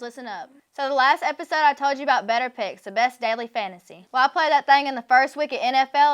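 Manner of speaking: casual host-read sponsor pitch; podcast ad read. Acted. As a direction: sell it conversationally to the listeners.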